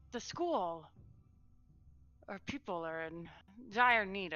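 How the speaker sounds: light up at the sight of rescuers; surprised delight. Acted. Lady greets the school's saviors with sudden surprise.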